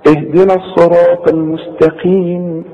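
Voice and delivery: "الصراط" heavy, "المستقيم" with light ta; careful model recitation. Shown as a demonstration. Teacher recites the verse, careful heavy "الصراط", light "المستقيم". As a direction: recite with long vowels, thick ṭ in "الصراط". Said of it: "تعرف ازاي تنطق الكلمة".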